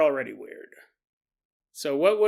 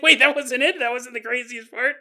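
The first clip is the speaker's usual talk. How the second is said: higher, louder mock disbelief; mock surprise; 6 semitones higher, 4 dB louder than usual. Listener stunned the story goes on, mock surprise. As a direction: gasp it out in disbelief. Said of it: "You're like".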